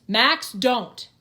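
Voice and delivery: Grim yelling at Max to stop; screamed warning. Acted. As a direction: shout at him to stop. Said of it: "Grim screams".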